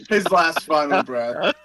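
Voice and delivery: dying gasp. Pretend. Acting out a dying duck.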